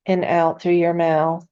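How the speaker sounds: calm meditation guide with long, restful pauses; unhurried, soothing guidance, leaving room to breathe; guided meditation. Acted. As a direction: ease them gently into relaxation, phrase by phrase.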